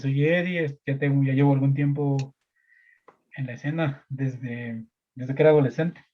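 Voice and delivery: muffled, talking through a face mask. Real, not acted. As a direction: speak with a mask over your mouth. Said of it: "estoy hablando con la mascarilla".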